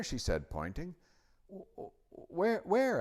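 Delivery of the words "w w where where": high, stammered, then loud; eager searching. A narrator's reading. Edmund looks for the lion, eager. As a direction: stutter into an eager high cry.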